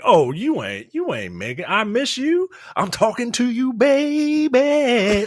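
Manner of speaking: high mock pleading wife voice. Mocking a wife begging her man, high and pleading.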